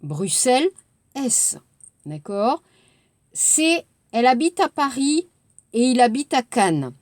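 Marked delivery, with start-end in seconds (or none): 4.1-6.9 liaison rapide «elle habite à Paris», fast; enchaîné rapide. Shown as a demonstration. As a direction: dire vite, avec enchaînements. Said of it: "Vous entendez?". (lecture rapide et liée)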